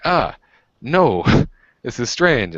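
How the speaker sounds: high alarmed laughing no; recoil, half laughing; startled refusal. Retold or imitated.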